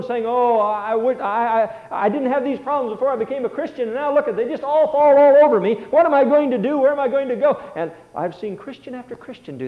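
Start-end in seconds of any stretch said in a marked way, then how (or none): 0.3-7.6 whiny complaining sheep, rising to a louder wail at the end; moaning and groaning. Retold or imitated. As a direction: play a fretful believer bemoaning his troubles. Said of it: "beginning to moan and groan".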